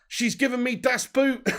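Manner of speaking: put-on slow, high German-accented das Boot; comic German manager line, slow and high; German accent catchphrase. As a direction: draw it out in a mock German voice. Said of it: "repeating the Farke line".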